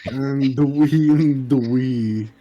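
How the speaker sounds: Uwu speak. Acted. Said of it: "Uwu speak".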